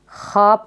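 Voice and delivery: ख्वाब said as khaab, no w; silent waw. Shown as a demonstration. Teacher repeating the reading, ख्वाब as khaab. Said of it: "वाव silent रहेगा इसमें".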